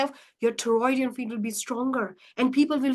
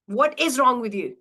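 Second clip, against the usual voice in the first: disrespectful; 3 dB louder than usual. Shown as a demonstration. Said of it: "In one, it's very disrespectful".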